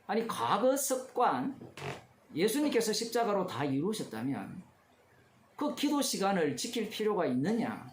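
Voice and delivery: mock objection, lightly pressed; mildly argumentative. Preacher voicing believers who question the prayer hour, mildly argumentative. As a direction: put it as a mild challenge. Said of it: "이렇게 따질 겁니다".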